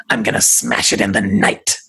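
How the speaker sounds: creepy spirit voice. Acted. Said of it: "that voice came from her".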